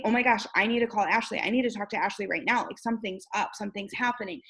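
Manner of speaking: fast, eager rush; can't wait to call her; excited reaction. Retold or imitated. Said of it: "it's a exciting".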